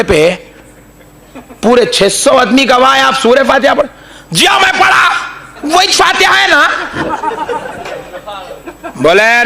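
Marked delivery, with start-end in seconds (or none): 4.3-6.7 laughing reply. Retold or imitated. Maulvi's laughing answer.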